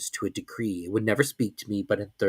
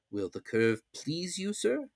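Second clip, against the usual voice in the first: servant's voice; 7 semitones higher, 7 dB quieter, slower than usual. A narrator's reading. Servant asks, quieter.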